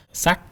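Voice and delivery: Sak lifting in pitch; rising tone. Shown as a demonstration. Teacher showing each name carries its tone, Sak rising. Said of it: "Sak carries the rising tone".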